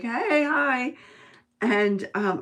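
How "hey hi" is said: high, loud retold hello; returned greeting, imitated. Newcomers greeting friendly strangers at the mall, imitated hello. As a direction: call back a hello, pitched up. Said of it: "so we were like".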